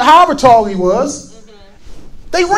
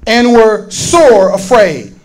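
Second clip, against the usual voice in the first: lower, measured Bible reading; solemn read-aloud scripture in a lower pitch; 4 semitones lower than usual. A narrator's reading. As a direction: read the verses out deliberately to a congregation.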